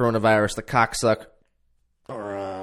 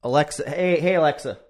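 calling out; 4 semitones higher, 5 dB louder than usual. Real, not acted. Calling out to smart speaker.

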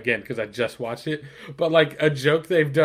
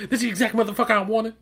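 laughing; 8 semitones higher, faster than usual. Retold or imitated. Joking impersonation of Durant.

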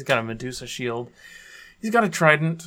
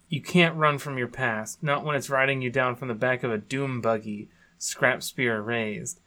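dramatic lore reading. Acted. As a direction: read it like a movie trailer. Reads skin lore aloud.

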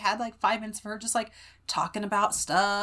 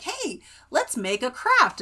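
Blippi; 4 semitones higher, 4 dB louder, slower than usual. Retold or imitated. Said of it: "he's like".

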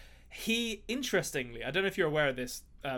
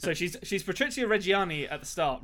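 exaggerated Italian pronunciation of Patrizia Reggiani; Italian accent; 3 semitones higher than usual. Shown as a demonstration. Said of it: "I'm not gonna do the Italian accent the whole time".

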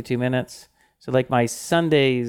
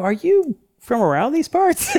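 mock Southern drawl; 12 semitones higher than usual. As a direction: ham up a country accent. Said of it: "So I go".

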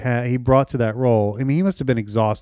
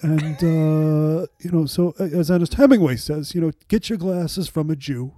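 Mamet voice. Retold or imitated. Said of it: "You got a really good Mamet there".

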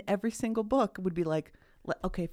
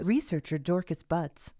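slow, hushed documentary narration; hushed nature documentary; slower than usual. Shown as a demonstration. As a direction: read it like a nature film narrator. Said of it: "in your narrator voice".

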